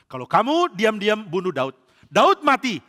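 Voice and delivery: emphatic enticement. Acted. Saul tempts soldiers with a reward.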